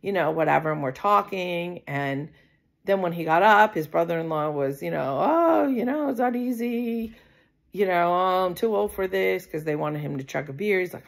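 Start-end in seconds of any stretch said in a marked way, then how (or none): 5.2-9.5 put-on high, put-upon old man's whine; whiny older man. Brother-in-law begging off a beer, whiny high moan.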